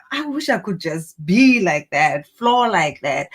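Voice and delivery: slow, longing sigh of envy; wistful wish. Retold or imitated. Someone envying another person's freedom, slow and wistful. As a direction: linger on each word as if dreaming of it. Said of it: "and like".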